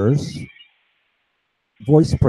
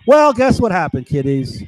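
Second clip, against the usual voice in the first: teasing; 5 semitones higher, 3 dB louder than usual. Real, not acted. Teasing audience.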